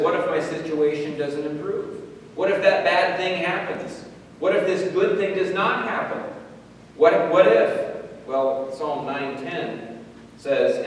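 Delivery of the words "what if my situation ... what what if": voicing worry. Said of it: "Worry says".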